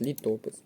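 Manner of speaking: літопис with the weight on то; stress on second syllable. Shown as a demonstration. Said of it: "наголос на другий склад".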